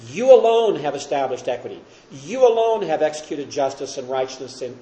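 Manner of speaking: "You" hit hard and loud at the start; emphatic you. Shown as a demonstration. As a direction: lean on "You alone", meaning you and no one else. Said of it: "It's an emphatic you".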